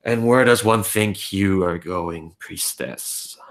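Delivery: low rumbling guard voice; deep rumbling voice. Acted. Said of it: "you hear this deep rumbling voice go".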